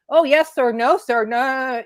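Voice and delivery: mock a nervous driver eager to appease; imitating rattled deference. Imitating a man pulled over by law enforcement, mildly rattled. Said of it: "he's scared. Like, he's, he's rattled".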